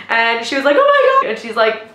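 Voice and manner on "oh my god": high, loud imitation of an excited mom; freaking out excitedly. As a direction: squeal it as the overjoyed mother. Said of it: "freaking out. She's so excited".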